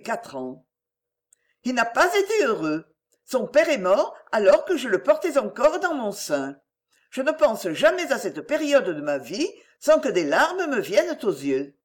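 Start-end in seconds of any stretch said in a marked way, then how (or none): 1.6-11.7 lightly voiced plaintive widow; self-pitying mother. Mother telling her widowhood to win indulgence, lightly plaintive. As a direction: plead hardship, lightly acted.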